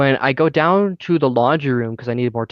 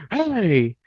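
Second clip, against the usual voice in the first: mock yell, higher pitch; raised-pitch call, volume held back; retold yell; 6 semitones higher than usual. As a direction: imitate someone yelling to stop you. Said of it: "he just fucking yells at me".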